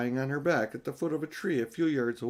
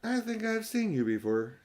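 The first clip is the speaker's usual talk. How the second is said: put-on girl's voice, higher and dreamy; dreamy, contented; 10 semitones higher than usual. A narrator's reading. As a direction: drift it out, half awake and content. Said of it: "Then she spoke in a dreamy".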